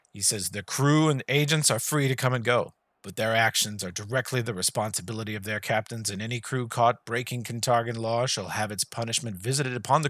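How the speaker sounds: measured, lightly voiced decree; lord's cold proclamation. Lord announces the harsh decree to the crowd, calm and measured. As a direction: read the harsh edict as if it were kind.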